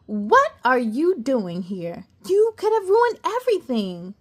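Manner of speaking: scolding. Acted. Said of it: "the Tooth Fairy scolded".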